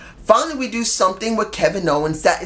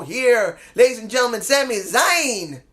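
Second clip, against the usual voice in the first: mock introduction with a long final name; ring announcer; 3 semitones higher than usual. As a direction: introduce a wrestler, stretching the last name. Corrected imitated ring introduction.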